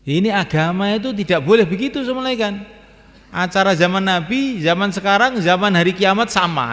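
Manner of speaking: forceful preaching. Real, not acted.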